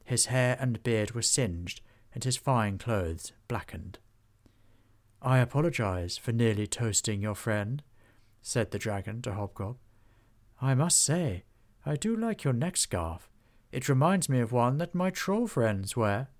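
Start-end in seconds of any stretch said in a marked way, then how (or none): 5.2-16.3 stately dragon. Acted. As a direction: speak like an ancient, gracious dragon. Dragon chats with Hobgob.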